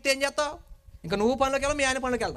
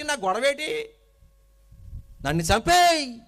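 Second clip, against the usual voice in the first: louder, slow, worn-out plea; a leader at the end of his rope; exasperated Moses; 3 semitones higher, 4 dB louder, slower than usual. Acted. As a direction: Moses crying out to God that the people are too much, loud and weary. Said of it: "అప్పుడు అంటాడు మోసే".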